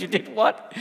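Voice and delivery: what rising in disbelief; you did what? with a shocked rise. Retold or imitated. Censors hearing about the joke, shocked rise. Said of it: "they were shocked".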